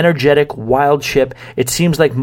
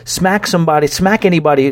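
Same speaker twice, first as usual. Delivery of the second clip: fired up; 4 semitones higher than usual. Real, not acted. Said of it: "I'm getting all fired up".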